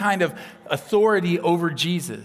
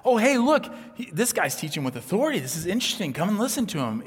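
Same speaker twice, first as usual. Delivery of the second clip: bright-eyed, higher and louder call; casual interest; 5 semitones higher, 3 dB louder, faster than usual. Acted. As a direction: call friends over to see something interesting. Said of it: "So it wasn't just this".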